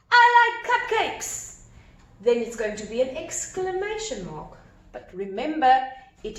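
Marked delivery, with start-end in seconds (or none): 0.1-1.6 mock shout. Shown as a demonstration. Teacher acts out a shouted quote.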